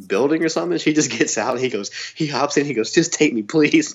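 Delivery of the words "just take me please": higher-pitched pretend desperate begging; mock panicked plea. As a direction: imitate someone pleading to get away. Retold panicked escape into cab.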